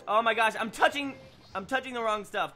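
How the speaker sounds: real flustered panic at own mistake; flustered outburst. Real, not acted. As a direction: blurt it out in real panic over a misclick. Misclicks in a tense match.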